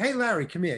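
kindly, easygoing, friendly and gracious call. Retelling how an older filmmaker called him over: imitating friendly, gracious manner. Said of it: "he would do it with such graciousness and, and such friendliness".

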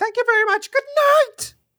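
loud shriek pitched high. Signing off the show with a quote: very shrieky voice imitating a singer. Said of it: "in a very shrieky voice".

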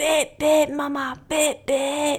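put-on high little boy's voice with Scottish accent. Retelling a small boy's horn game in the back garden: little scottish child accent. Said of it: "in his little Scottish accent".

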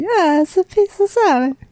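put-on high, slow Italian grandmother accent. Saying a surname in a put-on accent: soft-spoken put-on italian nonna accent. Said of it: "It's gonna be really soft-spoken".

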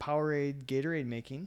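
normal talking voice

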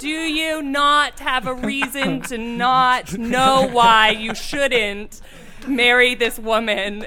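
slow, droning voice.

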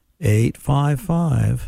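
deliberately slow delivery. The host slows down to repeat the show's phone number, speaking slowly. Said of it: "I have to slow down when I say that".

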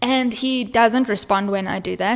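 normal talking voice

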